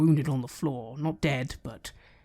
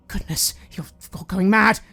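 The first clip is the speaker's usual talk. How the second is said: loud, high, disgusted exit line; indignant; 7 semitones higher, 6 dB louder than usual. Acted. Woman glares at the group, indignant and leaving. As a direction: huff at them and leave. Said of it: "glares at all of you and just says".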